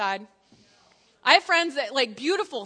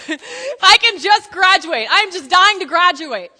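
mock longing plea; 5 semitones higher, 13 dB louder, slower than usual. Mock wishful student.

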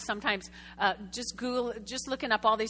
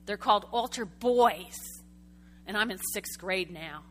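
moaning and groaning; 2 semitones lower than usual. Retold or imitated. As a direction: complain to Mom in a mock groan, stretching the words. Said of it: "he was moaning and groaning to his parents".

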